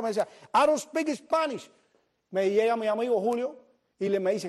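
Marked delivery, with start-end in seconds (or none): 0.5-1.7 high, drawn-out shout; slow yell down from a rooftop; calling back. Retold or imitated. Man on the rooftop answering a passerby, calling back slowly.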